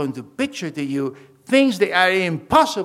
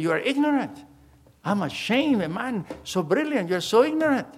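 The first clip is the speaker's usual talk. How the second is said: higher, mock-indignant doctor saying "ignorant"; retold angry doctor; 6 semitones higher than usual. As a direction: play the offended doctor scolding, pitched up. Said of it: "He, he was mad".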